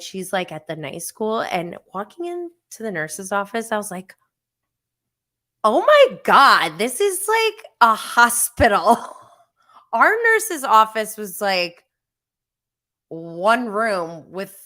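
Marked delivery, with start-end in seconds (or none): 5.6-9.0 loud amazed exclamation; mock-gasping wonder; awestruck. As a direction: blurt it out, stunned by how fancy it is. Awed entering the fancy nurse's office.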